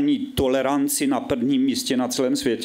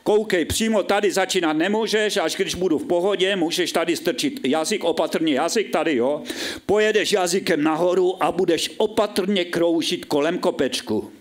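instructing woman; 5 semitones higher than usual. Acted. Petra instructs the narrator.

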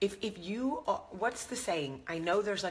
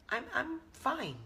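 Ross Geller; 8 semitones higher, slower than usual. Retold or imitated. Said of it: "I'm Ross Geller".

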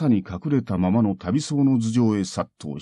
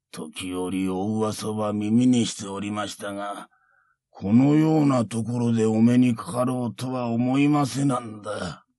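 put-on creaky wise old man. Monk greets old foe.

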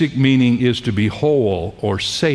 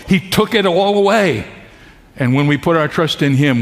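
raised pitch, emphatic sermon delivery; impassioned preaching; 4 semitones higher than usual. Real, not acted. Preacher tells congregation sin is paid for, impassioned preaching. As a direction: preach it with building conviction, pitch lifted. Preacher builds through gospel message.

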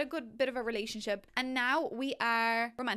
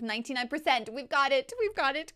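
excited cheer; 3 semitones higher, 5 dB louder than usual. Real, not acted. Progress bar almost full.

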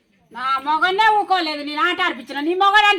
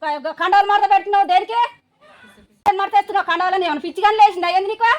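scolding; 3 semitones higher, 4 dB louder than usual. Acted. Wife scolding husband's tantrum.

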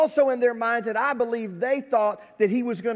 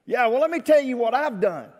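defensive boasting; 5 semitones higher, 5 dB louder than usual. Acted. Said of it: "I give them a verbal resume".

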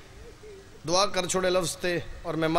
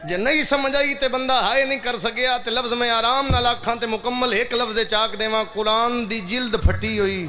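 higher, louder climax of the lament; impassioned shout; 5 semitones higher, 5 dB louder than usual. Acted. Preacher cries the grief aloud to the mourners, shouting. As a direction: cry it out at the peak.

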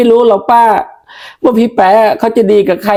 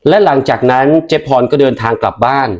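much lower narrator voice; story narration; 10 semitones lower than usual. A narrator's reading. Narrator ending the sketch, deep storytelling voice. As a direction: close the scene like a storyteller.

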